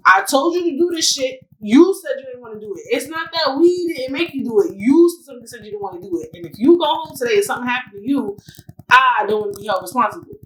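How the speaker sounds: lightly acted angry telling-off; mock mad doctor. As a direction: imitate a fed-up doctor laying down the law. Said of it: "he was so mad".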